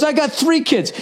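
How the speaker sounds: high, prim put-on voice of the Jaguar driver; snooty driver.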